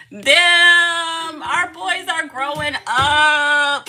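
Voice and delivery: loud, high, drawn-out lament; hammed-up tearful cry; emotional wail. Real, not acted. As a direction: wail it slowly, half laughing, half crying. Wails over sons growing up.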